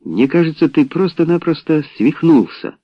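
heated. A narrator's reading. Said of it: "горячился Том". (горячась, с возмущением)

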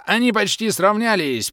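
high, loud excited call with the stress on "Они"; excited commentator. A narrator's reading. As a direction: shout "Они" out as the race tightens. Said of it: "всё комментирующая". (взволнованный выкрик комментатора, ударение на «Они»)

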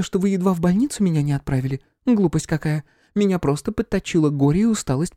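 high feminine voice, defiant; Flora, high-strung medium. A narrator's reading. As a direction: brush it off in a high, nervous voice.

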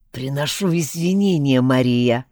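hoarse wheeze, throat squeezed; wheezing. Acted. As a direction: wheeze it out while choked. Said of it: "просипел тот".

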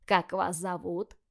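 slow, gentle question; a grandmother easing the boys in; gentle asking. Acted. Бабушка осторожно говорит с внуками. (мягко и медленно)

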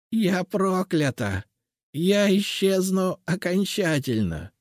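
put-on high, slow, despairing old woman; doomed old witch. A narrator's reading. Cursed witch explains her fate to the seer, despairing. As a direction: lament your final end.

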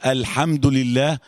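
slow "الحمد" with an audible unvowelled haa; drawn-out, distinct haa in "الحمد"; haa made clear. Shown as a demonstration. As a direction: linger on the breathy haa in "الحمد". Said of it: "وتلاقيها ظاهرة أول ما تكون ساكنة".

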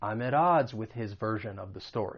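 AT ODDS said "ad-odds" within the sentence; flap T linking. Shown as a demonstration. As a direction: link the T of AT as a soft d. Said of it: "you should hear that flap T".

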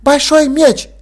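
высоко и громче, уточняя; девочка настаивает; детский голос. Acted. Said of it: "поправилось дитя". (девочка поправляет себя, высоким голосом)

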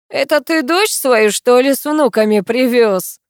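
husky voice. Acted. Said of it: "сипло поинтересовался".

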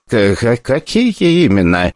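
slow frightened stutter; terrified director stuttering into the phone; stammering fear. Acted. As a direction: stumble over the words in panic.

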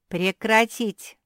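loud, slow barked command; commanding order. A narrator's reading. Queen Beatrisa silences the group, commanding shout. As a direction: order them to stop at once. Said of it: "скомандовала Беатриса".

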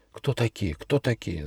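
hushed murmur of the crowd; whispering guests. A narrator's reading. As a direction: whisper it among yourselves. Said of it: "зашептались гости".

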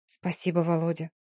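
soft, near-whispered thanks. Acted. Dina whispering thanks to Volodya, eyes closed. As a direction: breathe the thanks softly. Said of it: "шёпотом сказала Дина".

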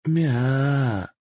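lightly voiced high little mew; contented mew. A narrator's reading. Kitsune enjoying the massage, a content mew. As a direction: mew with pleasure.

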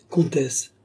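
simpering. Acted. Duke hides pique from countess, simpering. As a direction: simper to cover your pique. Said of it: "avec une minauderie qui cachait son dépit".

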